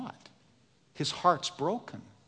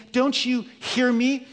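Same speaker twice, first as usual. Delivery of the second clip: pleading Jesus; 10 semitones higher, 8 dB louder than usual. Acted. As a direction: beg to be let in, voice raised high. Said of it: "and he's pleading".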